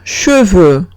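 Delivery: sh and rounded eu in cheveux; French word cheveux. Shown as a demonstration. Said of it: "Última palabra".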